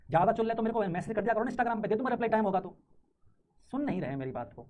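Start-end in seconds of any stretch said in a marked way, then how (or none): 0.1-2.8 raised, louder mock-generous offer to reply; sarcastic scolding. Real, not acted. Teacher scolds chatting students. (व्यंग्य भरी डाँट)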